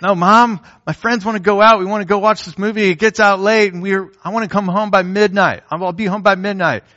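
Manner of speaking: put-on a teen begging mom to stay out late; whiny teenager. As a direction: plead like a teenager arguing curfew. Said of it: "How would you react to that".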